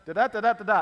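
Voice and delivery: playful booming divine voice; booming voice from heaven. Pretend. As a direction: announce it like God from the clouds, hammed-up. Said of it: "the voice from heaven says".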